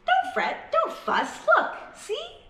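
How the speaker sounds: very high comforting squeak; a tiny mouse soothing a big bear; squeaky mouse. Acted. Mouse squeaks cheerfully to the sad bear. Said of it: "Mouse squeaks".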